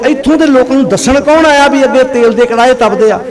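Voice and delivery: high-pitched, forceful sermon delivery; impassioned preaching. Real, not acted.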